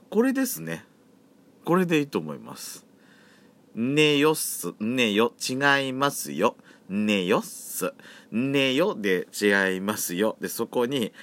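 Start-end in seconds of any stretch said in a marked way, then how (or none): 3.7-10.4 slow, careful Yamagata dialect reply; teaching a listener the Yamagata dialect answer. Shown as a demonstration. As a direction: demonstrate the Yamagata way to say no. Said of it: "すをつけるともう山形弁ですから".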